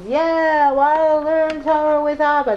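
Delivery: childlike imitation of Shmuel; imitating son's speech. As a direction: mimic how the little son talked back then. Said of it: "That's how he talked then".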